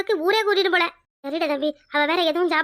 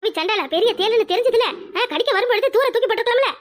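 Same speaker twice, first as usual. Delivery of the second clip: raised-pitch, exasperated telling-off; scolding; 4 semitones higher than usual. Acted. Granny berates the young man over the scorpion, scolding. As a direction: scold him for his carelessness.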